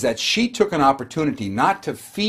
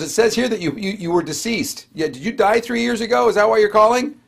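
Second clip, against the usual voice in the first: the flat voice of a clerk reading a screen; dead tone; 6 semitones higher than usual. Retold or imitated. Clerk tells caller he died, in a dead tone. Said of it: "She goes".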